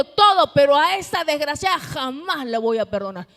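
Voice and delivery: bitter refusal. Acted. Voices the bitter grandmother's refusal.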